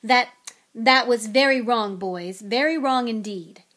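false start, then loud mock sternness; halting, emphatic telling-off; faltering reprimand. A narrator's reading. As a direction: scold dutifully to placate the wife. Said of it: "he faltered as sparks flew".

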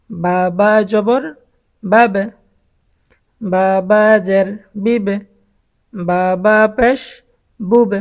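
slow drill: বা বা জবর, then বাব; teacher's measured demo of বাব, বিব, বুব; sukun spelling demo. Shown as a demonstration. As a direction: spell it, then land on the joined sound. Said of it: "তো এটা আমরা কীভাবে পড়ব?".

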